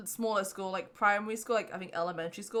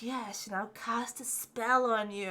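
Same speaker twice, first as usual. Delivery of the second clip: slow, drawn-out pretend curse; mock spell-caster; slower than usual. Answering bullies who called her gypsy, mock menacing. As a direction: play at casting a spell, slowly.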